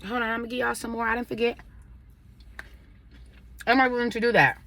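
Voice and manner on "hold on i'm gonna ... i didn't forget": talking while chewing; mouth full. Real, not acted. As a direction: speak through a mouthful of food. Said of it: "Normally I don't chew with my mouth full".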